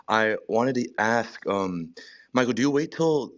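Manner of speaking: out of breath from the gym; talking while catching breath. Real, not acted. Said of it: "Sorry, I'm out of breath".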